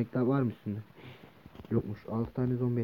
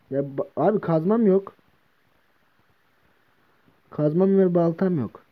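slow, louder lament over lost tools; dismayed whine; 4 semitones higher, 4 dB louder, slower than usual. Real, not acted. Player discovering lost pickaxe, slow dismayed whine. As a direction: wail over the loss.

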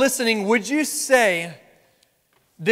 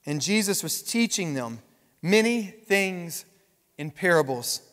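scripture reading. Acted. Pastor reading Mark four to the church, measured. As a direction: read the verses calmly.

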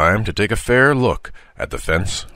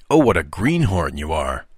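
easy superiority; 2 semitones lower than usual. Acted. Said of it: "with an easy air of superiority".

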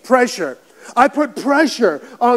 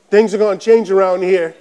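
mildly stern, lower-pitched warning; imitated stern wife; 4 semitones lower than usual. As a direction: lightly mimic a wife laying down the law. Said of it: "looks at me sternly and goes".

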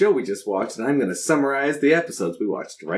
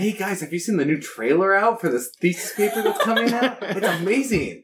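higher-pitched, laughing fanboy hype; mock excited fan; 6 semitones higher than usual. Pretend fan tells friends about a thesis trailer, mock excitement. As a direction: gush like a pretend superfan.

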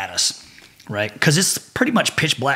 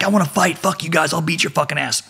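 mock yelling challenge; 4 semitones higher than usual. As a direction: imitate a drunk-style challenger, half-voiced. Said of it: "he's yelling at these other dudes".

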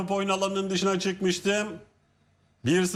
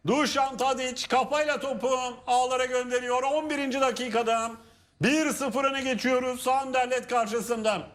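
screaming football commentator; 4 semitones higher than usual. Real, not acted. Goal recap shouted.

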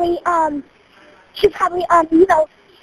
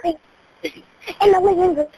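slow repeat; 2 semitones lower, much slower than usual. Real, not acted. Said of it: "It was where?".

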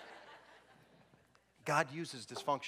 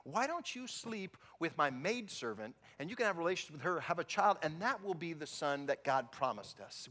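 lightly voiced wife, coaxing; sweet-talking her husband, a bit higher; Sarah's suggestion; 5 semitones higher than usual. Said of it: "and she said".

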